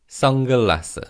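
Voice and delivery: 선글라스 with the ㄴ almost as ng; fast-speech pronunciation. Shown as a demonstration. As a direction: say 선글라스 like "seong-geullaseu". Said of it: "So in fast speech".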